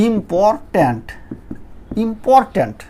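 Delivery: ইম্পর্ট্যান্ট in three measured beats; syllable by syllable. Shown as a demonstration. Teacher counting syllables for learners, ইম্পর্ট্যান্ট sounded out in parts. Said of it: "তিনটে syllable হয়ে গেছে".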